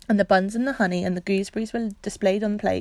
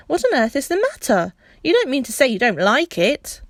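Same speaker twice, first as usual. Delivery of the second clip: higher, louder impatient question; 5 semitones higher, 5 dB louder than usual. Acted. Boy asking the crying woman, impatient and louder. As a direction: push her for an answer. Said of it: "perhaps a little impatiently".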